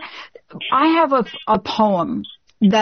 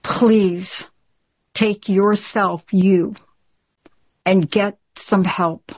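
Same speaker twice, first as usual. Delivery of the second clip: slow, deliberate urging, word by word; earnest plea; much slower than usual. Real, not acted. Host urging a grieving caller to get help, slow earnest plea. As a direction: plead slowly, with pauses between the phrases.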